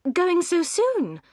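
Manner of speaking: high, slow, disappointed question; drawn-out, sinking dismay; dismayed surprise. A narrator's reading. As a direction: stop him from leaving. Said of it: "said Marianne".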